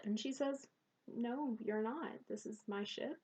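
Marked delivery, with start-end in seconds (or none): 1.1-3.2 calm firm refusal. Acted. Captain calmly refuses pirate boarding.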